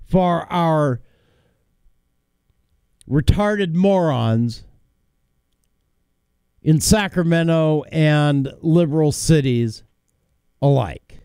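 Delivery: slow, measured delivery. Real, not acted. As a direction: spell it out slowly with pauses. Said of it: "I'm going to read it slow".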